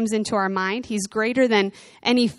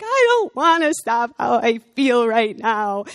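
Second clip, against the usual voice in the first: put-on whiny child; 4 dB louder, slower than usual. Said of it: "And you're like".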